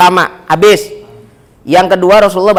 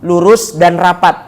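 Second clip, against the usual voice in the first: slow and clear; slower than usual. Shown as a demonstration. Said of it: "Maka pakai bahasa kita".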